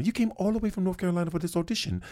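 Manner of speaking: amazed casting lady; surprised lady voice. Retold or imitated.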